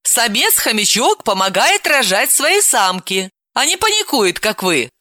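a touch of schoolteacher; explaining. Acted. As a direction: explain pointedly, as to a child. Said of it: "и пояснила".

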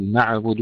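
نعبد with an echo bounce on ع; bounced ayn. Shown as a demonstration. Teacher showing what to avoid, bounced ayn in نعبد. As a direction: add qalqalah to the ayn of نعبد. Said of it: "لا نقلقلها".

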